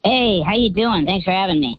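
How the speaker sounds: electronically disguised voice; voice changer. Real, not acted. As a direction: speak through a voice changer. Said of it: "even with a voice changer on".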